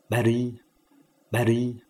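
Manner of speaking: 不离 as bhṛ, b with breath after it; BH with dotted R. Shown as a demonstration. Teacher drills B H R一点: 不离 as bhṛ. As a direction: say 不离 as "bhṛ", h before a light r. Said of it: "B H R一点".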